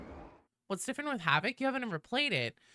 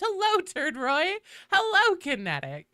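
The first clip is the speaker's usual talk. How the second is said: higher, louder sing-song hellos; high pitched greetings; 11 semitones higher, 5 dB louder than usual. Real, not acted. Streamer greeting chat in a higher sing-song. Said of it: "increasingly high pitched".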